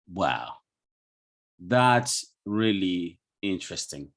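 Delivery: slow, unenthused delivery; lacking feeling. Shown as a demonstration. Teacher showing the class speech without feeling, unfeeling and slow. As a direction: say it slowly with the feeling left out. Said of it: "something's missing there. And it is lack of feeling".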